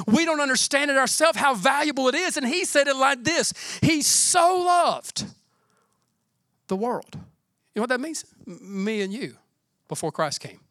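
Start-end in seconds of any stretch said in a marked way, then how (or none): 3.8-7.1 "He so loved" slow and higher, "so" drawn out; stress on so. Acted. Preacher quoting the verse to the church: slow, stress on so. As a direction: stretch "so" like it matters most.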